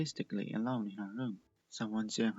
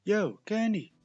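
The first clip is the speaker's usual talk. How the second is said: higher, louder call across the park; called greeting; 9 semitones higher, 7 dB louder, slower than usual. Acted. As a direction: Prism Bolt calling out to Candy, higher and louder.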